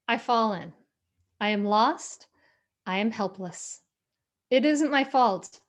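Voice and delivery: measured, deliberate recitation with pauses; poem reading. Acted. Speaker reads Portia Nelson's poem to the audience, measured recitation.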